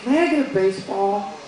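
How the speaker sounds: lightly voiced little boy; young son. Son asking daddy for a baseball, lightly voiced child. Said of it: "my son comes up and he's like".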